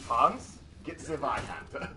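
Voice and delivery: German war mommy. Pretend. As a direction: call Hans, then drag out the order slowly. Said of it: "German war mommy".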